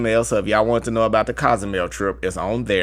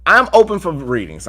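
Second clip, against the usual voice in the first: louder proclamation; announced loudly; 5 semitones higher, 6 dB louder than usual. Shown as a demonstration. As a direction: declare it proudly. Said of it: "I'm gonna say it like that".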